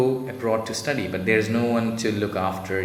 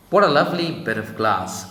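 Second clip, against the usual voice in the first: delighted cry; 5 semitones higher, 4 dB louder than usual. A narrator's reading. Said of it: "cried the little girl".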